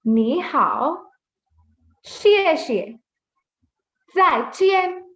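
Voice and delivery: greetings read slowly with long gaps; slow read-aloud. Shown as a demonstration. Teacher leading the first reading of the greetings, slowly. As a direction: take each greeting slowly and separately. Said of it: "First, we'll read it slowly".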